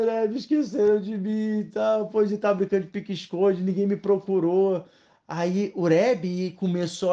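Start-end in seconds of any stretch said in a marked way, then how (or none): 0.1-4.8 higher-pitched whine, lightly imitating crying; hint of a sobbing child's lament; mock tearful child. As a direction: play a little boy complaining through tears. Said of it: "ele saiu todo chorando".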